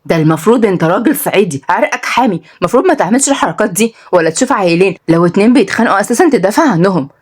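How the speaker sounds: sarcastic, animated Saidi telling-off; lightly voiced indignant sister; scolding big sister. Sister lectures brother about fighting, scolding.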